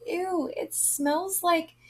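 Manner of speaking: imitating her own first sniff; grossed out. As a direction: pull a face at the bitter smell. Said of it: "I was like".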